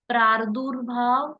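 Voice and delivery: प्रादुर्भाव drawn out slowly, each syllable clear; slow careful spelling-out. Shown as a demonstration. Teacher to students, slowly sounding out प्रादुर्भाव. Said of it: "प्रादुर्भाव या परादुर्भाव".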